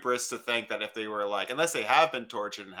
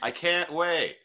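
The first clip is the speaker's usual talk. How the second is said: toy robot voice; 5 semitones higher, slower than usual. Pretend. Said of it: "Improvtron three thousand, excited".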